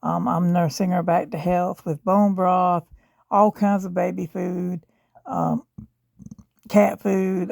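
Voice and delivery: rough, worn-out voice from a sore throat; hoarse sick voice. Real, not acted. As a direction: speak through an inflamed throat. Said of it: "my voice is really, really bad".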